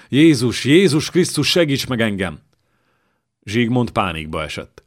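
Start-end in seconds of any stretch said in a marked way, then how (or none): 0.1-2.4 higher, louder cry to Jesus; a frightened king crying out to God; panicked plea for rescue in battle; desperate prayer. Acted. Panicking king prays aloud.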